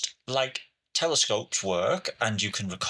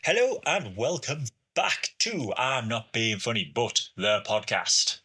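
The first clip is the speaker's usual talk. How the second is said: tinny, distant mic sound; like talking from inside a tin can; 2 semitones lower than usual. Real, not acted. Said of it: "you sound like you're in a tin can".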